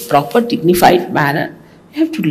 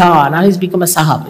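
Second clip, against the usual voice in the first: 1 mocking jibe; faster than usual. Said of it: "they say".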